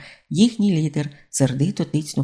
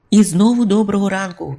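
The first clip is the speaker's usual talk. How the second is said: bright, loud hearty hello through a megaphone; cheerful greeting; 5 semitones higher, 5 dB louder than usual. A narrator's reading. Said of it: "він радісно привітався".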